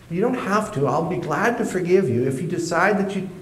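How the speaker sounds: high, eager mock forgiveness; eager pleading. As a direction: plead brightly, almost cheeky. Teen pleading with cop.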